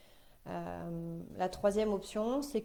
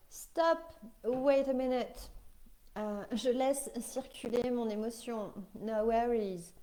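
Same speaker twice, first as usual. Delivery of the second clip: exaspéré faussement; 4 semitones higher than usual. Pretend. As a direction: stop crié, aigu, mi-amusé. Imagined exasperated stop in meeting. (voix aiguë et exaspérée pour rire)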